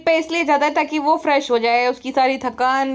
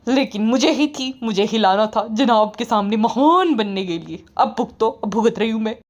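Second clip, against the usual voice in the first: lower, fed-up complaining wife; lightly lowered sulky wife; grumbling wife; 4 semitones lower than usual. Retold or imitated. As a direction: moan about the in-laws in a lowered voice. Wife's rant continues.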